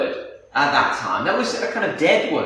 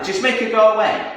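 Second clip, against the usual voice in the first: higher-pitched exasperated request; dismissive; 4 semitones higher than usual. Shown as a demonstration. Disciples wanting the woman gone, impatiently dismissive. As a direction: demonstrate wanting rid of someone. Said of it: "a bit of a choice how we could hear this".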